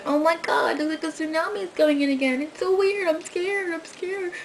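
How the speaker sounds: high, breathy mock-terrified confession fading to a whisper; mock Blair Witch fear. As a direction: play the scared girl from Blair Witch, voice rising. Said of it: "remake of Blair Witch Project".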